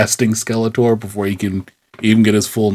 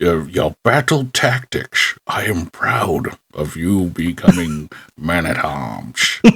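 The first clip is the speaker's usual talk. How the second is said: put-on Scottish film-star accent; 4 semitones lower than usual. Doing a character's lines in a Sean Connery voice. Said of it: "it's just going to be Sean Connery".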